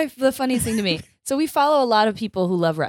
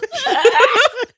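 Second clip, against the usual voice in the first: pterodactyl shriek; 13 semitones higher, 5 dB louder than usual. Real, not acted. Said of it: "it sounds like a pterodactyl".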